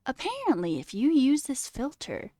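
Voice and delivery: mock voiceover; retried dumb voice. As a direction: parody the narrator again. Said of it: "not even doing the intonation right".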